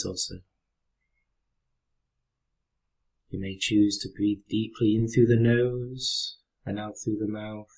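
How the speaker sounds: calm, unhurried meditation guide with long pauses; guided meditation. Real, not acted. Teacher guiding listeners through a breathing exercise, calm meditation voice. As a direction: lead them gently through the breath, leaving space after each phrase.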